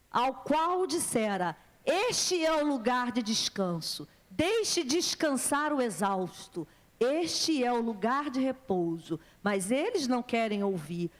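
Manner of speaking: slow, drawn-out proclamation of scripture; scripture reading. Acted. Preacher reading Isaiah to the congregation, solemn scripture reading. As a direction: read the verse out with deliberate weight. Reads the Bible verse aloud.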